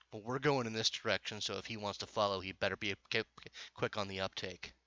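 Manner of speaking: low-key menacing game character; understated, curt warning; mild snarl. Acted. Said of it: "She just kinda snarls and sa".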